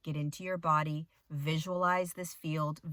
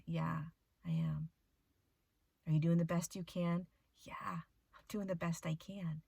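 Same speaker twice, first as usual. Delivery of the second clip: whispered yes; 4 dB quieter than usual. Real, not acted. Answering her guides softly.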